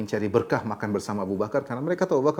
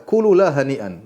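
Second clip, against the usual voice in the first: mild anger; 6 dB louder, slower than usual. Retold or imitated. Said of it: "maka Abu Bakar kemudian marah".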